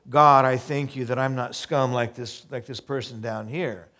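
loud, pompous mock Pharisee prayer. Pastor mocking a Pharisee on the street corner, loud and pompous. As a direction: ham up a self-righteous show-off praying. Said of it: "Pharisees standing on the corner".

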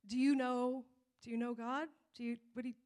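hesitant, repeated false starts; trying to get it out. Retold or imitated. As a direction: fumble the question awkwardly, trailing away. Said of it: "trying to get it out".

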